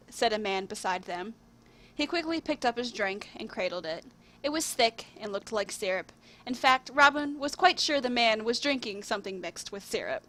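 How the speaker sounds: measured storybook reading with lifted openings; story narration. A narrator's reading. Writer reading their own tale to viewers, storybook narration. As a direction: read it out like a fairy tale.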